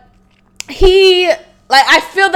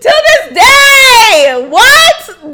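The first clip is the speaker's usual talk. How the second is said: high, loud, slow laughing wail; crying laughing; 11 semitones higher, 8 dB louder, much slower than usual. Real, not acted. Repeating the meme, high crying laughter. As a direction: laugh till it breaks. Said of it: "I'm still laughing".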